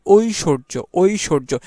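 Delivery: ঐশ্বর্য said carefully as "oi-shor-jo", no b sound; pronunciation demo. Shown as a demonstration. Teacher showing how to write by sound, careful "oi-shorjo" for ঐশ্বর্য. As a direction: sound out ঐশ্বর্য opening on a clear "oi". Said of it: "কিভাবে আমাদের উচ্চারণ".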